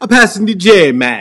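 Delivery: bad, loud, thick fake Jamaican patois, swooping pitch. Naming a passing dj, thick, bad jamaican patois accent. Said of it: "with a really thick, bad, bad, bad patois uh, Jamaican accent".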